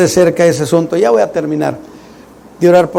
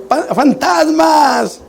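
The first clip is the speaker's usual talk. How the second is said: mock frightened cry; 9 semitones higher, much slower than usual. Pedro frightened on the sea.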